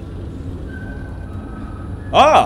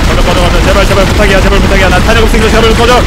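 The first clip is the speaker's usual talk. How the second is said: louder frantic begging; loud pleading; 7 dB louder than usual. Real, not acted. Gamer out of ammo loudly begs the monsters to go away.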